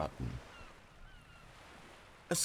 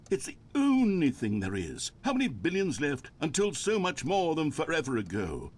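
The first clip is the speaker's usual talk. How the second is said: droning monologue; 2 semitones higher than usual. Pretend. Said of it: "pretend that I've just begun an interminable monologue".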